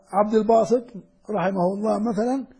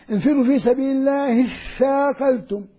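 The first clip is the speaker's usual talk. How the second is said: recited joining. Shown as a demonstration. Teacher demonstrates linking across the hamza, chanted. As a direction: chant "الله اثاقلتم" linked, tha doubled. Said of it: "لما تيجي قبل همزة وصل".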